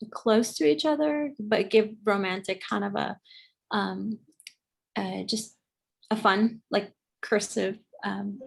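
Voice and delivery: choppy call audio dropping out; cutting out. Real, not acted. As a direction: voice breaking up on a bad connection. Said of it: "You cut out there".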